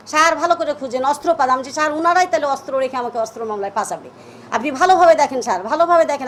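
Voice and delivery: loud, insistent plea, retold; urgent pleading. To the police searching her home, a retold loud urgent plea.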